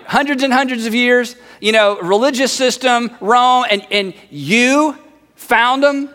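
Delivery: slow, drawn-out disbelief on "you"; incredulous. Acted. Friend doubts they found the Messiah, incredulous. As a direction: repeat the claim as if it's absurd.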